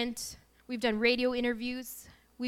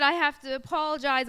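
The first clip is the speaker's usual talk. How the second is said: mock tearful outburst, louder and higher; still crying; 4 semitones higher, 8 dB louder than usual. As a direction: blurt it out like a weepy mess. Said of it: "I'm still crying. I'm a mess".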